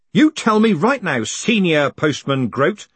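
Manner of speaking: loud, high, forceful order; snapped demand. A narrator's reading. Moist orders the old man to talk, snapping. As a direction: snap it, drawing out the title. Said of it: "he snapped".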